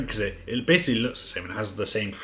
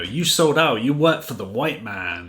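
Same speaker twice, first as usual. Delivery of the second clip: higher, louder imitation of an accusing son; mock indignant son, raised and forceful; acted accusation; 4 semitones higher, 8 dB louder than usual. Son confronting his dad about selling out, mock accusing.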